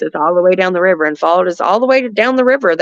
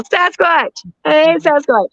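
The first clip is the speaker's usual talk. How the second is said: Sasquatch call; 4 semitones higher, much slower than usual. Shown as a demonstration. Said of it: "Do my Sasquatch call".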